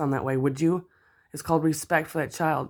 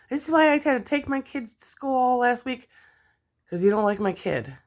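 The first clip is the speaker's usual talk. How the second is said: furious rant; 10 semitones higher, 4 dB louder than usual. Real, not acted. Addressing the absent mother angrily.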